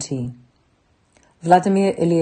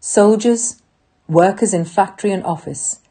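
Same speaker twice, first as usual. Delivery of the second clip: ranting dictator speech. Acted. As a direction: stir the troops to fight. Rallying call to soldiers, workers.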